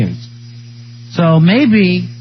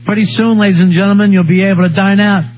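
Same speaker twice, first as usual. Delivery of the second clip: campaign speech; 3 semitones higher than usual. Pretend. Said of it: "I'd stop and say".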